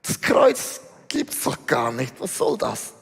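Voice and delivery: low, dismissive mock scoffer; contemptuous scoff. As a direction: imitate a scorner brushing it off. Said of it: "schüttelt verächtlich den Kopf und sagt".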